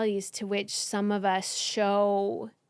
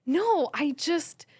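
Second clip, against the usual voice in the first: retold, deeply moved; 4 semitones higher, slower than usual. Acts out her moved reply.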